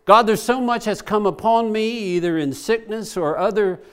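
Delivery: earnest, fervent prayer voice rising and falling; pleading prayer. Acted. David voiced praying to God in trouble, fervent pleading. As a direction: pour it out to God as a plea.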